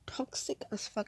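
very soft, whispered dig; barely audible whispered aside; inner-thought aside. Retold or imitated. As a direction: mutter it as a private thought. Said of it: "I said that in my head".

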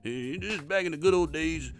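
mocking old-school boss. Narrator mocking the regional manager's back-in-my-day lecture, lightly voiced.

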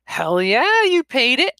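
loud, pitch leaping up; scornful outburst. Acted. Woman confronting the ex-convict, loud scorn. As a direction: throw his words back at him.

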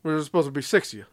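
quick cartoon villain patter; lightly voiced monster, rattled off fast; monster's cartoonish voice. Monster confronting the short-handed Rangers, quick cartoonish voice. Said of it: "he talks like this".

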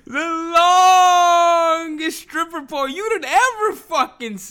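high, slow words through helpless laughter; losing it while describing the pole; laughing. Real, not acted. Vlogger to viewers, laughing hard. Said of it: "I'm laughing".

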